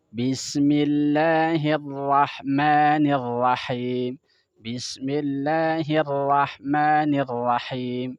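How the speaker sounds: Bismillahirrahmanirrahim sangat pelan, ra datar tanpa monyong; ra datar benar. Shown as a demonstration. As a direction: contohkan bacaan yang benar pelan-pelan. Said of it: "Maka ngucapinnya". (Bismillahirrahmanirrahim pelan, bibir tidak bergerak)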